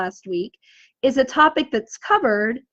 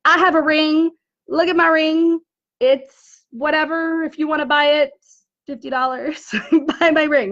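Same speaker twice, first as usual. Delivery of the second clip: pushy salesy pitch; 3 semitones higher than usual. Retold or imitated. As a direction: hawk it like a pushy seller. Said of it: "but not just like".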